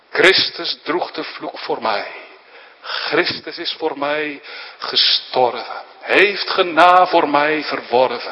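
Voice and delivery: preacher declaiming a hymn verse; reciting a hymn. Acted. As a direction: proclaim the hymn text with fervour. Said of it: "wat ooit een dichter uitriep".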